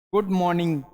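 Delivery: गुड मॉर्निंग with no r in मॉर्निंग, mɔnɪ̃ŋɡ; silent r. Shown as a demonstration. Teacher demonstrates the silent r to students. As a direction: say मॉर्निंग without its r. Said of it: "ये आपका silent होता है".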